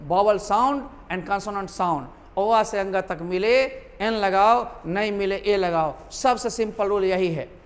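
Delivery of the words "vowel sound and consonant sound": slow, deliberate, word by word; slow master rule. Shown as a demonstration. Teacher to pupils stating the master rule, slow and deliberate. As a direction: spell out the rule slowly for students to remember. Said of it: "एक master rule याद रखो".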